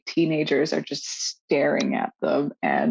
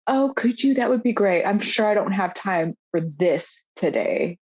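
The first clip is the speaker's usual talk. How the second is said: condescending receptionist; 2 semitones higher than usual. Retold or imitated. Receptionist brushing off the new engineer, mock condescending. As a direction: dismiss him with sweet false courtesy. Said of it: "she says it like this".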